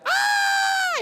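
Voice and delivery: a piercing high shriek of fright; sudden terrified high-pitched scream; scream of fear. Shown as a demonstration. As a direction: scream like you've seen a ghost.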